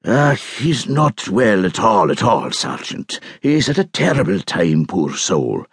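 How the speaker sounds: lightly voiced old Highland man, slow; slow, sorrowful old crofter; father-in-law lamenting the hotel owner, slow and mournful; mournful old islander.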